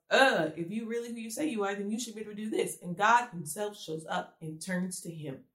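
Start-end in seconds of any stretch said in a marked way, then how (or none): 0.1-2.8 fast, rushed complaining rant. Retold or imitated. Gideon ranting at the Lord, rushed and exasperated. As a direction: rattle it off like a frustrated man arguing with God. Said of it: "Gideon goes on this rant".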